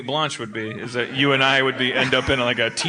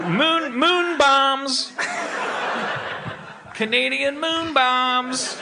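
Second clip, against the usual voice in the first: higher, very slow, laughing; laughing moon bombs; 10 semitones higher, much slower than usual. Pretend. Joking to his cohost about Canadian moon bombs, laughing. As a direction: drawl it out through laughter.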